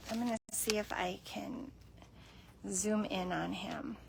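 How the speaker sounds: hushed whisper so not to scare him. Real, not acted. Filming a shy cat up close, whispering. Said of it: "unvoiced whisper".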